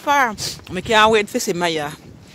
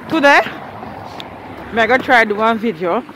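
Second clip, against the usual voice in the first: Jamaican patois. Shown as a demonstration. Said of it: "speaking only Jamaican patois".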